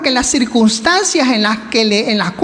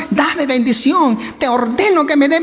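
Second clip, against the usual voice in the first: demanding. Retold or imitated. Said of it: "No le estaba exigiendo".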